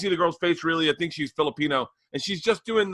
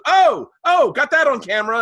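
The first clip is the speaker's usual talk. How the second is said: much higher, louder triumphant woman; smug gotcha; 11 semitones higher, 8 dB louder than usual. Retold or imitated. Mocking the woman filming him, high smug squeal. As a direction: squeal it like you caught him red-handed. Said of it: "And then she goes".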